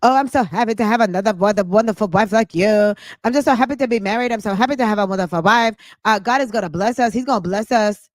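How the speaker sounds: fast, fake-sweet mock husband; rattling off fake devotion; mocking Nesto. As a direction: parody his empty sweet talk. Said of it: "the whole time he's lying to her".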